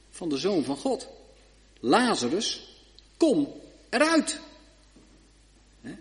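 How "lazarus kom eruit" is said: gebiedende roep. Acted. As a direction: call him out of the grave with authority. Jezus roept Lazarus uit graf. (Jezus roept Lazarus gebiedend uit het graf, luid)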